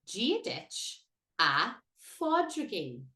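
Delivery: very slow "Gia dich a Pádraigín", P H said as F; Irish greeting demo. Shown as a demonstration. Teacher models the F sound, very slow. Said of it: "we say".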